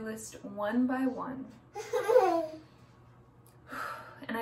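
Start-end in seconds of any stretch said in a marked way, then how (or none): 1.7-2.6 real sigh between instructions; audible sigh. Real, not acted. Meditation host pausing after a to-do list prompt, sighing. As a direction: let out an audible breath.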